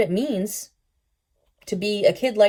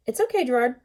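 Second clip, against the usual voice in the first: slow and quiet; 5 semitones higher, faster than usual. A narrator's reading. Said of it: "real slowly and quietly".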